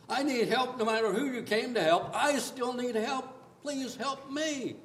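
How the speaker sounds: a mother begging Jesus for help, slow and pleading; slow desperate plea. Acted. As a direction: drag out please help me, pleading.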